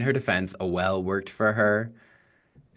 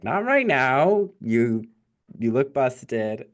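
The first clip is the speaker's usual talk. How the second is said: mock mirror; 3 semitones higher, slower than usual. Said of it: "it's like".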